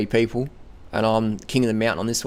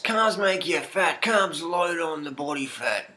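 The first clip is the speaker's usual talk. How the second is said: mocking tone; 5 semitones higher, slower than usual. Mocking opponents' claim.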